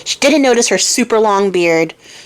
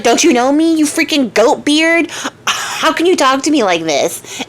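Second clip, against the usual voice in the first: higher, mock-indignant outburst; 5 semitones higher than usual. Spoiled Renzolla snapping at the old man, mock indignant. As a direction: play the spoiled girl taking offense.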